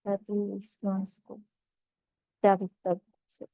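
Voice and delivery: calm, measured meditation guide with long pauses; guided meditation. Acted. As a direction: ease them into stillness, phrase by unhurried phrase.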